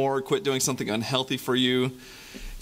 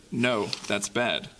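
glum; much slower than usual. Acted. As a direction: drag "bad" down in mock dismay. Call-and-response refrain.

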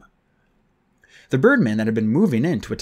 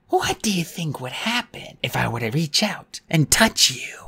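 harsh croak; 4 semitones higher than usual. Acted. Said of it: "her voice was a harsh croak".

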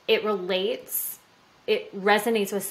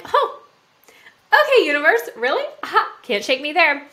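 much higher and louder, cocky disbelief; mock defiant; 9 semitones higher, 8 dB louder than usual. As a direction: dare the universe, half laughing. Desafía al universo en broma.

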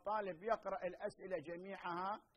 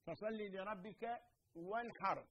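Quran recitation; 4 dB quieter, slower than usual. Shown as a demonstration. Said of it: "عندنا مثلًا الحاء".

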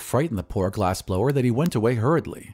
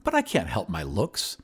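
mildly pleading suitor; understated plea; 2 semitones lower than usual. Acted. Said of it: "pleaded the glass blower".

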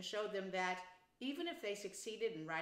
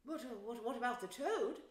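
hesitant, mildly anxious question; 4 semitones higher than usual. A narrator's reading. The mole asks about the Toad, anxious. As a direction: falter over the question with worry. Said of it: "asked the mole anxiously".

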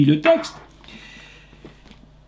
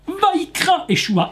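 Vaikra Yeshua shouted out high and strong; loud call; 10 semitones higher than usual. Acted. Preacher acting Yeshua calling the dead girl, shouting. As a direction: call the girl back with a full voice. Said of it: "il cria d'une voix forte".

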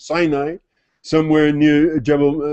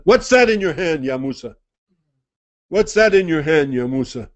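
solemn divine voice. Acted. Voice asks Musa.

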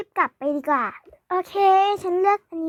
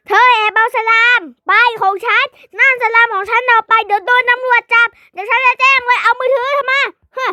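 angry scolding; 4 semitones higher, 5 dB louder than usual. Acted. Shopkeeper scolds slime thief.

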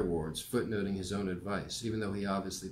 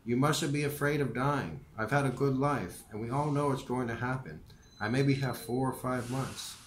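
put-on gentle elderly teacher voice, a bit higher; old professor voice; 4 semitones higher than usual. Narrator voicing Morrie.

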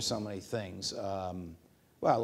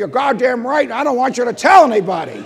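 much higher and louder; emphatic Scalia; 13 semitones higher, 16 dB louder than usual. Retold or imitated. Scalia insisting to the judge, loud and high. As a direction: bark it with glee.

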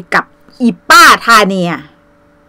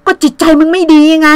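ก็จิตใจมึงไม่ดีไง higher and louder, hammered home; taunting loud ก็จิตใจมึงไม่ดีไง; emphatic repeat; 6 semitones higher, 5 dB louder than usual. Shown as a demonstration. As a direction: throw ก็จิตใจมึงไม่ดีไง back at her loudly. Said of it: "ฮะ?".

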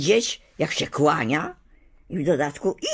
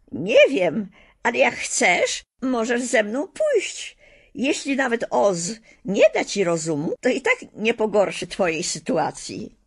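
wyżej, głos małej dziewczynki; dziecięca, szczera Dorotka; 5 semitones higher than usual. Acted. Dorotka voiced by narrator. (Dorotka przedstawia się strachowi, dziecięcym głosem)

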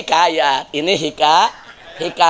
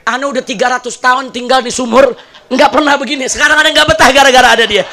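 put-on exasperated old jinn; 5 semitones higher, 5 dB louder than usual. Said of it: "Ini kakek bilang".

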